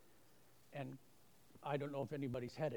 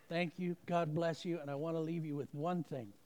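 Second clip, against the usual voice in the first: rousing close; 3 semitones higher, 7 dB louder than usual. Real, not acted.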